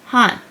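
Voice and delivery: "han" as "hahn", one separate syllable; demonstrated syllable. Shown as a demonstration. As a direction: sound out "han" with airy H, open ah, N ending. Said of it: "It's like H sound".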